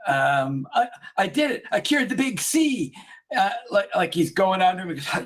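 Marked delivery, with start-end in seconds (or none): 0.7-2.9 high-pitched imitation of an amazed boast; mock triumphant announcement. Retelling doctor telling colleague he cured cancer, mock triumphant. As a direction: announce the miracle in a raised, excited voice.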